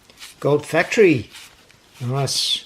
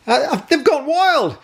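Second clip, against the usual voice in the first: playful squeal; 10 semitones higher, slower than usual. Acted. Joking echo of the game title.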